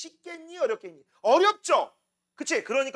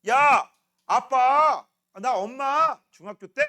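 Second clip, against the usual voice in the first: put-on parent talking to child; 7 dB louder, much slower than usual. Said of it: "니들이 얘기를 하는 거야".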